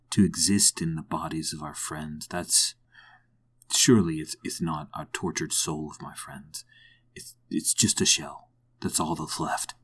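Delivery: subdued and low, sighing over lost friends; grim, sorrowful reflection. Acted. Player as Plessy mourning fallen friends, hushed and sorrowful.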